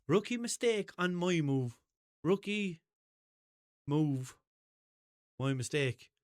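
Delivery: повыше и медленнее, с гордой подачей; тянуть фразу как девиз; mock proud catchphrase. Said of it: "I don't know what the fuck I was trying to say".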